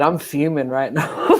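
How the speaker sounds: slow, laughing mock-fuming line; quoting through laughter. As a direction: repeat her words while cracking up. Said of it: "Like Jupiter said".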